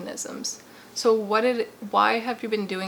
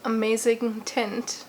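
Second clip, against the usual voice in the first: put-on playful British accent, slightly raised pitch; 2 semitones higher, 6 dB louder than usual. Vlogger welcoming viewers to her channel in a playful put-on British accent. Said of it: "I'm talking in this accent".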